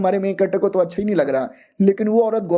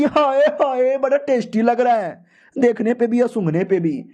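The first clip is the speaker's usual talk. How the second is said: put-on high, gushing girls' voice, pitched up; gushing girls; 4 semitones higher than usual. Girls admiring the main character's cooking, gushing. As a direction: swoon over the smell of the cooked meat. Girls gush over cooked meat.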